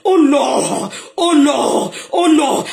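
crying out to God. Real, not acted. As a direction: call on God with fervour.

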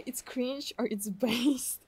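slow whispered quip; whispering. Real, not acted. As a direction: whisper it as a secret.

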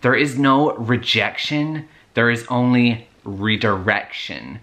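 put-on slow, drawn-out American accent; slow mock-profound American accent. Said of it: "I'm gonna be putting an American accent".

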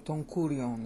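Don kurion with KU stressed and a light ending; corrected stress. Shown as a demonstration. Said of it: "is how I should have said it".

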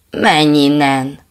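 loud, slow bellow; big dog bellowing at the water; roar. Acted. Big dog roars at its own reflection, loud. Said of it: "ordított a nagykutya".

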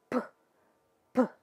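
P with a burst of air; spat-out P. Shown as a demonstration. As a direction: spit the P. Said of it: "ele é cuspido". (P cuspido, com sopro)

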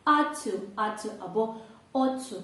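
ought to with the two T sounds merged into one; blended ought to. Shown as a demonstration. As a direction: run ought to together with a single T. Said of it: "коли ми вимовляємо". (ought to — одне злите Т)

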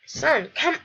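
acted parent summoning a child; calling out urgently. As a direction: shout each word separately. Dad calling son urgently.

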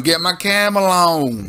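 slow, lazy stoner drawl; a laid-back hippie stoner. Pretend. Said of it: "In my hippie stoner voice".

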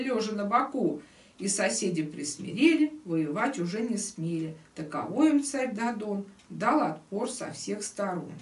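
rhythmic storyteller's recital; lively verse reading. Acted. Teacher reading the golden cockerel tale aloud, lively rhythmic storytelling. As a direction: recite the tale in bouncing couplets.

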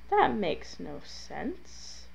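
soft, slow, baffled muttering to oneself; quiet bafflement. Real, not acted. Baffled by failed fire trick.

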